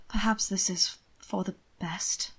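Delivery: slow breathless whisper; slow hushed whisper, half to himself. A narrator's reading. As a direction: whisper it with sudden hope. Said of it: "he whispered".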